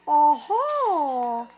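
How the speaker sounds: evil laugh. Acted. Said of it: "que risada maligna".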